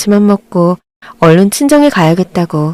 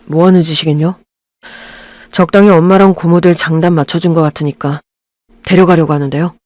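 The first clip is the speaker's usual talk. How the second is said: lower, curt son answering back; cold husband; 3 semitones lower than usual. Acted. Husband coolly defying his mother, lower cold voice. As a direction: keep it low and cold.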